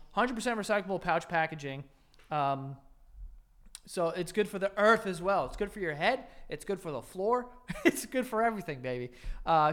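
upbeat host-read sponsor spot; chatty, hyped-up ad read with asides. Acted. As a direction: sell the product like a podcast ad. Reads sponsor ad copy.

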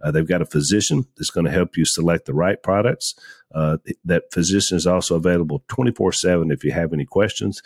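upbeat sponsor read to listeners. Acted. Podcast host reading the sponsor ad to listeners, upbeat ad read. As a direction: sell it like a host ad spot.

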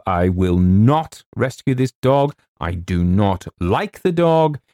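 slow, weighty "not", every word spaced; emphatic refusal. A narrator's reading. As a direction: dig in stubbornly on "not". James refuses to himself, emphatically.

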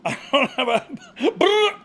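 breaking up while trying the trill; laughing. Real, not acted. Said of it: "not even my brr's working".

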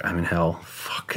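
a soft, scared inner thought that trails into a whispered curse; hushed dread. Retold or imitated. Recalling a moment of terror on the trip, hushed. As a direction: say it quietly, as if afraid to wake something.

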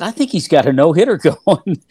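amused, incredulous aside to a partner; amused retelling. Retold or imitated. Retelling a remark to broadcast partner.

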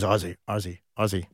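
lightly imitated Irish accent; quiet, hinted Irish accent, calling a player. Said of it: "Sorry about the I-, Irish, uh, accent".

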